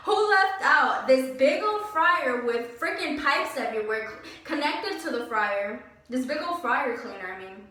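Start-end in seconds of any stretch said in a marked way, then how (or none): 0.1-5.8 laughing exasperation. Real, not acted.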